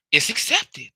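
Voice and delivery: ACCEPTED lifted high and sing-song; tonal inflection. Shown as a demonstration. Teacher contrasting with monotone, high inflected "accepted". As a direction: swing the pitch high on "accepted". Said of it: "when you begin to hear tonal inflict".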